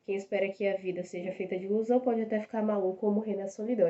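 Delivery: quick spoken recital of a song verse; recited lyric. Shown as a demonstration. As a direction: rattle off the song lyric fast, spoken not sung. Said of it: "Eu não tô cantando no ritmo aqui".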